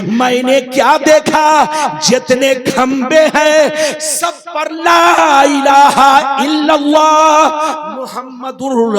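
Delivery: drawn-out, ringing sermon narration; fervent preaching. Retold or imitated. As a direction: build to the sacred phrase, then ease down. Preacher retells Adam's words.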